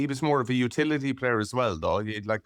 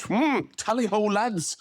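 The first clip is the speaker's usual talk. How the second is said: high hammed-up rowing cox; 9 semitones higher, much slower than usual. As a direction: call the strokes like a cox. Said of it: "you could imagine me up on the edge".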